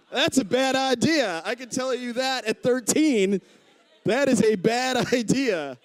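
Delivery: high-pitched mock alarm; retold protest. Thirteen-year-old protests the doctor's plan.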